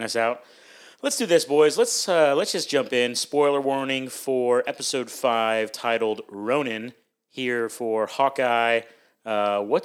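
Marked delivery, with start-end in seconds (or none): 1.0-3.1 pumped, raised voice to start the show; hyped up. Real, not acted. Host kicking off episode review. 3.1-8.8 slow, deliberate announcement; announcer read. Acted. Formal spoiler announcement.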